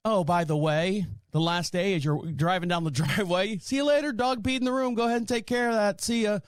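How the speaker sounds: high, airy, careless mock voice; mock breezy aunt. Mocking the aunt leaving a mess, high breezy mock voice. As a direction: toss it off like it's nothing. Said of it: "you're gonna say".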